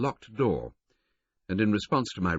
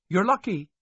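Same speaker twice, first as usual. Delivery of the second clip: high, louder chef voice; Chinese chef; 6 dB louder than usual. A narrator's reading. Chinese chef telling him where the conductor is. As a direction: point him along, helpfully.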